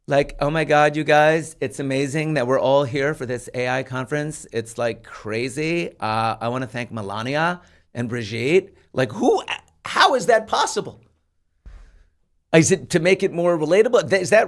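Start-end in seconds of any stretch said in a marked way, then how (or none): 0.1-11.0 put-on Valley Girl voice. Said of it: "speaks like a Valley Girl".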